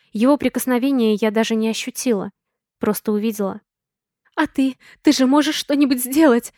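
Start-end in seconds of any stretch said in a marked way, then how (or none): 4.3-6.5 shout. A narrator's reading. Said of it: "крикнула подруга".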